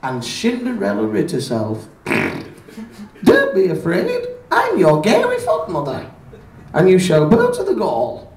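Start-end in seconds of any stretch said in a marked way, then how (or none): 3.2-8.3 fairy godmother voice. Acted. Fairy godmother speaks to Cinderella.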